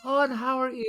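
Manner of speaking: a hint of polite British royalty; gracious British royal. Royal greeting people down the line, lightly mocked politeness. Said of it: "Like the royal making public".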